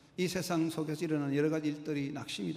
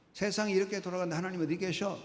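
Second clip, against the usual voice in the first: quoted scoffer; 4 semitones higher, 3 dB louder, faster than usual. Retold or imitated. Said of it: "이런 소리 얼마나 많이 듣는지".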